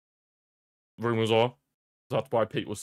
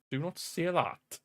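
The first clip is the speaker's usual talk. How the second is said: high, slow and softer plea; dismayed protest; 7 semitones higher, 5 dB quieter, slower than usual. Real, not acted. Scotland supporter refuses to think of a draw, dismayed slow protest. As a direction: draw it out, pitched up, pleading.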